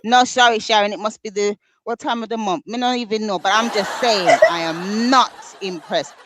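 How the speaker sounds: Jamaican patois. Pretend. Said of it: "may I bring out the patois chat".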